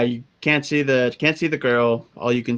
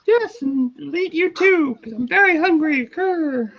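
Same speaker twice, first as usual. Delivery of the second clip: high-pitched menacing voice; 13 semitones higher than usual. Acted. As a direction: squeak the threat, then growl. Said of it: "the little voice says".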